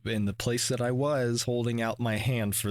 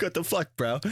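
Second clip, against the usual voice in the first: shocked outburst; 6 semitones higher than usual. Retold or imitated. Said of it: "It's like".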